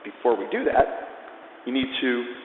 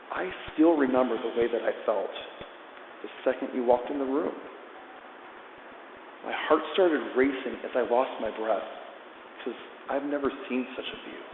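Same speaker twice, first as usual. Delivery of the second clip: soft, measured lyric reading; reading lyrics aloud; 6 dB quieter than usual. Shown as a demonstration. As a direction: read the lyrics gently, line by line. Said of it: "let's just read it aloud".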